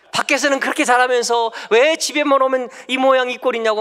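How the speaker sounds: mock a wife tearing into her husband; nagging wife. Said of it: "막 난리를 치는".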